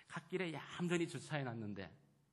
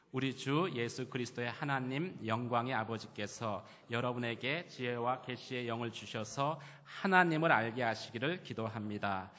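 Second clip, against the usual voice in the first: loud, measured congregational reading; scripture reading aloud; 8 dB louder than usual. Real, not acted. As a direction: lead the congregation through the verses. (또박또박 힘 있게 성경 봉독)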